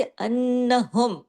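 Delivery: अन्नहुम recited slowly, the final म fully clear with no nasal hum; clear izhar recitation. Shown as a demonstration. Teacher showing izhar to students, slow clear recitation. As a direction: slowly recite अन्नहुम, giving the म full clarity. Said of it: "हुम पूरे इज़हार के साथ हमने पढ़ा".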